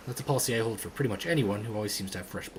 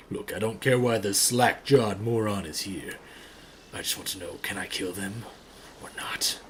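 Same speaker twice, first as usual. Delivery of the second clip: menacing, impatient character; 3 semitones lower than usual. Acted.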